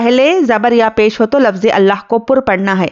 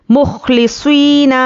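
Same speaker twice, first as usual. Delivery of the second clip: slow model word; 2 semitones higher, much slower than usual. Shown as a demonstration. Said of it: "teacher models the word slowly".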